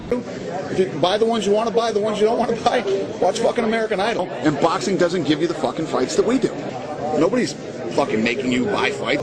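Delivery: a promoter losing patience with fans who knock the card; angry rant. Real, not acted. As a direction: tell the complainers off with real heat. Ranting at fans who complained.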